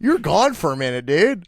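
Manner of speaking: loud, high gym bro; pumped-up trainer energy; peppy breathy workout coach. Pretend. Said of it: "She talks like she's your personal trainer".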